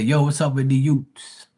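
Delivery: "Utes" said as yoots, hard T; slangy greeting ending on "Utes" with a T; slang pronunciation. Retold or imitated. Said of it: "They say".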